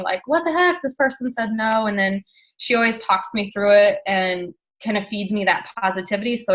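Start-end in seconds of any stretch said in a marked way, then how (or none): 0.3-1.9 higher, exasperated complaint; playfully outraged vent; mock exasperated. To Jamie about a prospect, mock exasperated. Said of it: "So I always tell Jamie".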